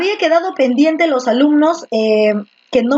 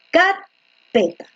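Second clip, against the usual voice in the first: "carpeta" as a slow, high CAR, then peta; stress on first syllable; 5 semitones higher, much slower than usual. Shown as a demonstration. Teacher testing where stress falls, "carpeta" slowly stressed on CAR. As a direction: stretch and lift the CAR of "carpeta". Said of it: "la fuerza de voz está en P".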